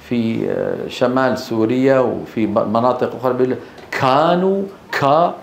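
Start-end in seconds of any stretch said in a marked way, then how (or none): 3.9-5.3 كانوا with too much air bursting after the k; over-aspirated kaf. Retold or imitated. Teacher imitates some Kurds' kaf, over-aspirated. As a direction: exaggerate the puff of breath on كا. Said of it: "بعض الشعوب يبالغون".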